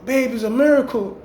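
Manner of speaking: high, gushing mock girlfriend voice; fake amazed woman. Scheming woman faking amazement to her man, high and gushing. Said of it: "she's sticking by his side".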